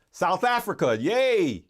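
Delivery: loud, high cheer to South Africa; a live host cheering on viewers from South Africa; excited shout-out. Real, not acted. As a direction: shout the greeting with delight. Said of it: "I hope I'm not yelling too, too loud".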